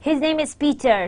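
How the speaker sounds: assured statement, PETER falling; conveying certainty. Shown as a demonstration. Teacher modelling certainty about a name, assured fall on Peter. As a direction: assert it as settled fact, falling on "Peter". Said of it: "to convey certainly that his name".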